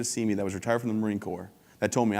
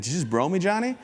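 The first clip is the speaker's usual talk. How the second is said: mock-outraged dad; 7 semitones higher than usual. Dad confronting daughter's boyfriend.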